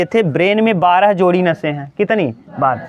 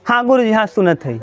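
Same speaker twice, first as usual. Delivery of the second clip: mock inattentive student; 2 semitones higher, faster than usual. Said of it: "यहाँ अभी देखो बैठी रहती है".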